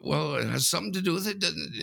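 high, quick mock-innocent retort; cheeky reply. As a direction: toss it back, all innocence. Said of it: "I said".

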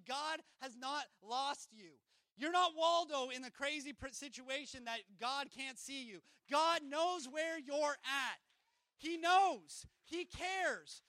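loud, slow, emphatic declarations; rising preacher shout; preaching climax. Real, not acted. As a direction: drive it home to the room.

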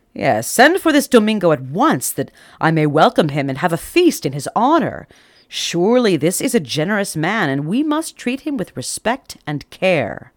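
a generous king's proclamation; commanding king. Acted. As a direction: give the order like a pleased king.

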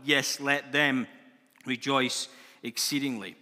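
declaimed psalm, measured and emphatic; scripture reading. Acted. Preacher reading the psalm to his church, proclaiming. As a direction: proclaim the verses to the congregation.

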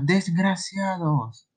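slow, exasperated curse under restraint; very annoyed. Acted. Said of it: "muy molesta".

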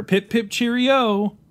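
high, slow, hammed-up posh English; mock upper-class English accent; silly British accent. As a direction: play the proper English son with a drawn-out cheerio. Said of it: "what's with that silly accent there".

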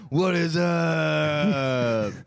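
high, drawn-out mocking greeting; squeaky falsetto mockery. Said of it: "I don't sound like that".

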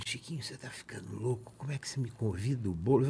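very soft, confidential aside; retold hushed reproach. André takes Chiquinho aside over inviting Boulos, hushed reproach. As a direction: reproach him under your breath, as retold.

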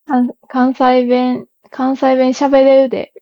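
trying out Kansai dialect; Kansai-dialect line, tentatively demonstrated. Shown as a demonstration. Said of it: "何が自然かな".

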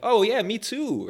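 high, drawn-out "me too" chiming in; eager agreement. Retold or imitated. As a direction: perk up and agree like a friend would. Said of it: "share stories and be like".

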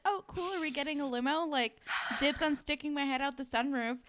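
high-pitched, hopeful imitation; eager excitement. Girl assuming she is invited in the limo, eager. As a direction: pipe up high, inviting yourself along.

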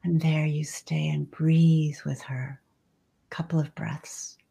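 soft unvoiced whisper. Real, not acted. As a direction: drop into a hushed whisper. Breathing with the mother star.

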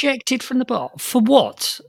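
high, incredulous outburst; can't believe what you just heard; shocked disbelief. Real, not acted. Shocked reaction to the ejection.

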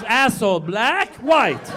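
mock annoyed guy calling me dumb; audience guy scoffing. Audience man mocks the comic's dumb question, mock scoffing. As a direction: scoff it like it's obvious. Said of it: "He goes".

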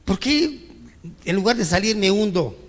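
high-pitched reproachful "¿por qué?"; imitated complaint to God. Believer reproaching God, a high mock plea. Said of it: "le dices".

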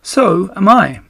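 high, small spider voice; tiny voice. Acted. Second baby spider chiming in to Wilbur, tiny and high. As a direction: pipe up like a tiny newborn spider. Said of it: "said another tiny voice".

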